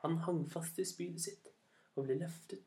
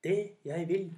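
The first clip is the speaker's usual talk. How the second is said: louder, weighty demand; commanding eagle; 3 semitones higher, 7 dB louder than usual. A narrator's reading. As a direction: announce it loudly as the eagle. (høy, myndig ørnestemme)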